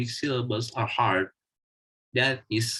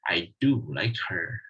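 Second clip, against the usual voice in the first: "do" said in full strong form; stress on do; 4 semitones lower than usual. Shown as a demonstration. Teacher explaining the third example, stressing "do". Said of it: "words that have a full stress".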